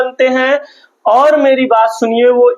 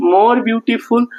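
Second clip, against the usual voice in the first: "more beautiful" stretched out very slowly, each word held; slow, drawn-out dictation; much slower than usual. Shown as a demonstration. Teacher dictating to students, very slow and deliberate. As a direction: spell it out slowly so the class can write it down. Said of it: "किसका प्रयोग करते हैं".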